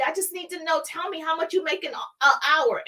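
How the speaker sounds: lightly voiced little boy pressing dad; pleading little boy. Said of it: "the little boy was like".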